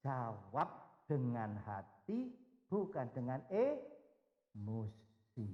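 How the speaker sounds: slow, low and calm counsel; gentle and slow. Retold or imitated. The Lord speaking to Peter's heart, slow and gentle. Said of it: "berbicara secara khusus dengan hati Petrus".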